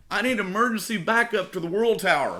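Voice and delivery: urgent mock plea into the radio; panicked radio call. Scared guard calling for emergency backup, high and frantic.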